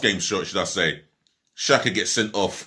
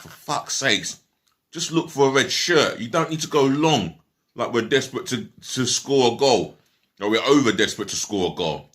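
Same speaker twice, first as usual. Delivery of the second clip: frustrated, pitched-up rant at a player; exasperated outburst; 4 semitones higher than usual. Retold or imitated. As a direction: vent at him like he's on the pitch. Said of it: "And I'm like".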